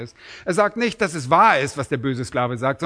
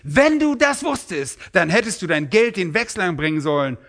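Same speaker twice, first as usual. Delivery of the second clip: indignant master; 4 semitones higher, 3 dB louder than usual. Retold or imitated. Master confronting the lazy servant, indignant. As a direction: turn his excuse against him. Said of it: "Und dann sagt er effektiv".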